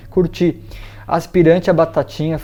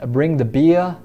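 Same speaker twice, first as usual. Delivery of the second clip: BBC English accent; slower than usual. Shown as a demonstration. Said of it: "em inglês já estilo B B C seria".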